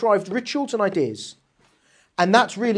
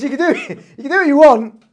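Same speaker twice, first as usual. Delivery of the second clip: loud, higher-pitched mock Cockney; put-on Cockney market cry, pitched up; Cockney accent; 7 semitones higher, 10 dB louder than usual. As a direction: belt it out in jokey Cockney. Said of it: "obviously spoke in a Cockney accent".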